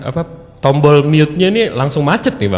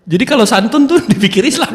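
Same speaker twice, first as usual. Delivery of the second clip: high voice breaking into laughter; amused, dissolving into a long wheezy laugh; 13 semitones higher than usual. Real, not acted. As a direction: crack up as the line ends. Amused by the absurd accusation.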